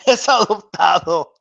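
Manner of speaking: laughing through the quote. Retold or imitated. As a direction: giggle out the meme line. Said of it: "Chavez Senior".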